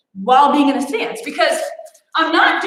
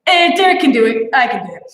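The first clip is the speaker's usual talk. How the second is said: Derek pep talk; 4 dB louder than usual. Pretend. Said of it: "channeling my inner Derek Spears".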